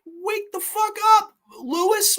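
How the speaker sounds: high shout to rouse a sleeper; high mock yell at a dozing actor; mock wake-up yell.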